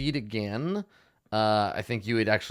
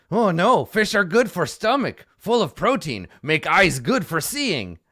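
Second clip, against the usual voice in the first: higher, louder mocking quote of his friend; mimicking the other gnoll; 8 semitones higher, 8 dB louder than usual. Gnoll mimics his partner's fish advice, high and loud. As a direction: parrot his partner's nagging. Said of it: "but he is saying".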